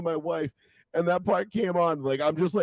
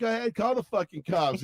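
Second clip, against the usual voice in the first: lightly voiced, higher mock dare; Cartman; 6 semitones higher than usual. Cartoon boy daring the old man, mock defiance. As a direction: dare them in a cartoonish pitch. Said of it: "is Cartman and the old man".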